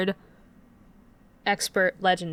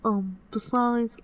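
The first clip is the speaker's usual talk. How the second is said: funny voice; much slower than usual. Acted. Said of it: "talking in that voice".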